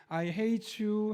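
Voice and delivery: drawn-out, soothing imitation; gently. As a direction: say it tenderly, as if petting a dog. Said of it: "이 말을 하면서 부드럽게".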